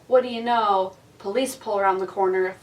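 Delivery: ordinary talk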